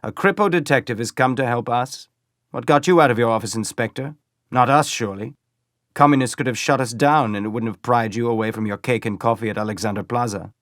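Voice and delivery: lightly voiced SA man mocking a Kripo inspector; sneering stormtrooper. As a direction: taunt the detective, lightly voiced. Feldstedt taunting the inspector.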